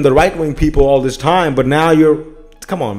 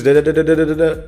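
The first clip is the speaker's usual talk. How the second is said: fast, empty da-da babble mocking a politician; quick mock of a long-winded answer; mocking rambling babble; faster than usual. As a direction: rattle off nonsense syllables to mock the waffling. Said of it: "took two fucking minutes to say one sentence".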